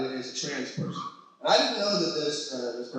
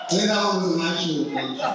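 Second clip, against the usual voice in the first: says it through a laugh; laughing remark. Real, not acted. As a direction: laugh while you joke about it. Repeated, still laughing.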